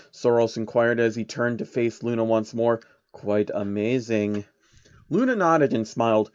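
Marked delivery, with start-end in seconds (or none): 3.1-4.4 slow, slightly lower calculating voice; a hint of a scheming old man; slow and measured; lightly voiced sly old man. Soros voiced.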